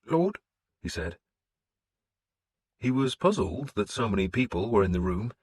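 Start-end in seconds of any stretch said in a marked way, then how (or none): 0.0-0.4 high, timid priest voice. A narrator's reading.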